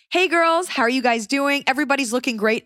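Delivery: put-on high, bubbly, over-friendly greeting to the girls; fake-sweet homecoming queen. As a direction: play the sugary popular girl ignoring her rival. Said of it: "You are running for homecoming queen".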